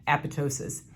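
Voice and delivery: apoptosis said carefully in the preferred way; correct pronunciation. Shown as a demonstration. Lecturer settling how the term is said, correct pronunciation of apoptosis. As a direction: give apoptosis as the textbook pronunciation. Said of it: "the correct pronunciation is".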